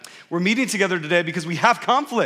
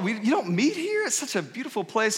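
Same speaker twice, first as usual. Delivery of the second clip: mock disbelief, pitched up; softer, high-pitched incredulous question; mind blown; 3 semitones higher, 4 dB quieter than usual. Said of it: "I'm just mind blown".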